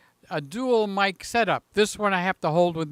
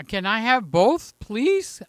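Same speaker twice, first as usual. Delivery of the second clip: pleading; 3 semitones higher, 3 dB louder than usual. Real, not acted. Begging for both cakes.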